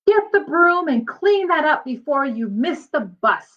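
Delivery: a touch of a scolding mother; mild scolding. Acted. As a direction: tell him off lightly, hurried. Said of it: "scolded Mom".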